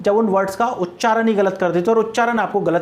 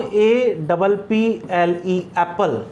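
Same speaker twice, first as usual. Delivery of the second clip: slow spelling; 2 semitones lower, much slower than usual. Shown as a demonstration. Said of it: "teacher spells apple".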